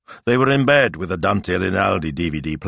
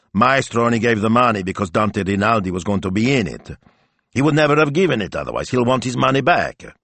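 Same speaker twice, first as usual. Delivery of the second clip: lightly voiced worried husband, higher as he goes; objecting husband; 3 semitones higher, 3 dB louder than usual. Husband explains why the plan fails, objecting. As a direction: argue against the plan, pitch climbing.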